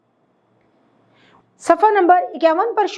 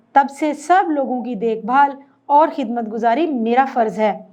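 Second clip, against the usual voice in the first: measured, lower storybook reading of the lesson; story reading; 3 semitones lower than usual. A narrator's reading. Teacher reading the lesson story to children, calm reading voice. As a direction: read the tale to the class evenly.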